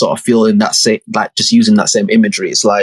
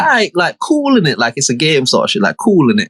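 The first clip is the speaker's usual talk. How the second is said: casual shrug; 5 semitones higher than usual. Retold or imitated. Quoting his own casual reaction.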